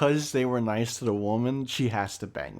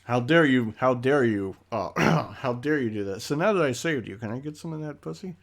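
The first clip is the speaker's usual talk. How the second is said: mock white knight; 4 dB louder than usual. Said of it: "there it is".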